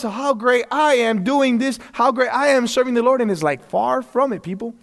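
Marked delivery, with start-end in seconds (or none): 0.0-3.2 mock prideful boast. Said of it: "all the glory is for us".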